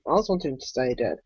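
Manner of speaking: quick, muted confession; quiet aside. Real, not acted. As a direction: mutter it fast under your breath. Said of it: "gotta be honest".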